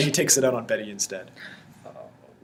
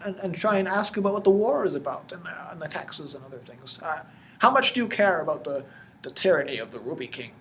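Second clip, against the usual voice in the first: high, loud rabble-rousing villager, easing towards the end; eager peasant customer; 7 semitones higher, 4 dB louder than usual. Acted. Customer urges Hector to the peasants' revolt, eager and high. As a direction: pipe up in a higher, insistent voice.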